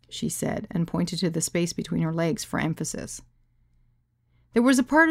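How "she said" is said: plain reading voice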